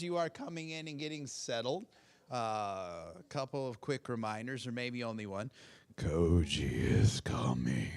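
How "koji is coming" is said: deep, slow booming announcement; auctioneer voice. Pretend. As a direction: boom it out like a big-event announcer. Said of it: "I'm gonna break out my best auctioneer voice".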